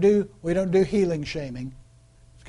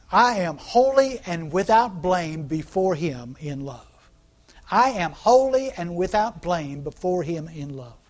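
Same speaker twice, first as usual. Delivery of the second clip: slow, measured recital of scripture; congregation recital; 4 dB louder, slower than usual. Shown as a demonstration. Preacher leading the congregation in a slow recited confession. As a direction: lead the room through the verse slowly. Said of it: "you can repeat that with me".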